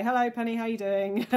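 lilting demo greeting; sample greeting. Shown as a demonstration. Coach showing throat vibration to class, sample greeting. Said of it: "or just say".

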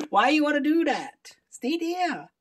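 high cooing pet voice. Real, not acted. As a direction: coo at the cat. Scolding the cat.

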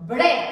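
"Bread" in one unbroken beat; one-syllable demo. Shown as a demonstration. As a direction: demonstrate "Bread" as a single burst of sound. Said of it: "one syllable". ("Bread" بمقطع واحد دون كسر)

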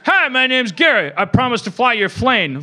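mock the pilot, barely holding in laughter; giddy pilot video. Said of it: "if during that video, he's like".

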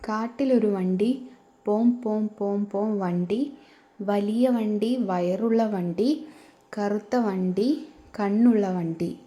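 put-on slow sing-song reading of a children's rhyme; poem recital. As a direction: recite it slowly, line by line, for little kids. Reads textbook poem to children.

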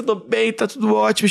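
high-pitched mock-weepy voice; mock tearful. Storyteller reassures worried people while crying, mock tearful. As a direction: playfully imitate tearful reassurance. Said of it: "E chorava, chorava, chorava do olho".

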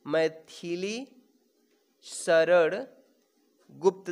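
"मैथिली शरण गुप्त" slowly, long pause after each word; word-by-word dictation. Shown as a demonstration. Teacher repeats name for dictation. ("मैथिली शरण गुप्त" को एक-एक शब्द रुक कर बोलें)

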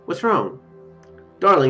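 ordinary delivery

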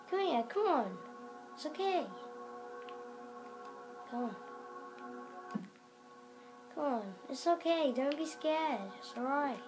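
soft-edged, lilting encouragement; soothing little reassurances; gently coaxing. Pretend. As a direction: coax a shy creature closer. Coaxing the scared dragon closer.

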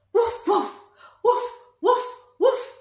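excited barking game; barking along. Pretend. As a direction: bark with the kids, giggling. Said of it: "Can you bark like a dog with me".

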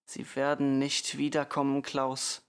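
every word of "nicht wiederkommen" clearly set; clear and distinct. A narrator's reading. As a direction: say "Sie werden nicht wiederkommen" firmly and distinctly. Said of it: "sagte die Mutter deutlich". („nicht wiederkommen“ deutlich gesprochen)

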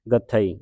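ਗਥਈ as short ga, then thai; ਗਥਈ with ga apart from thai; split pronunciation. Shown as a demonstration. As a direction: keep the th single in ਗਥਈ. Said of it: "ਗੱਥੇ ਨਹੀਂ ਪੜ੍ਹਨਾ".

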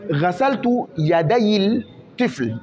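very slow, word by word dictation pace; slow example reading. Shown as a demonstration. Teacher reading an example to students, very slow and deliberate. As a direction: read the sentence out slowly for the class to follow. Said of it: "teacher reads example sentence".

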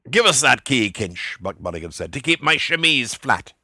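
Buck Mulligan's voice. A narrator's reading. Mulligan demands the key.

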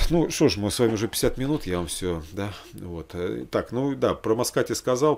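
usual speaking voice

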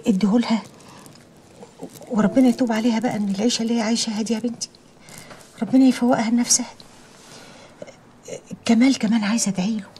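put-on hushed, half-whispered prayer for each child. Mother prays for her children. (دعاء هامس)

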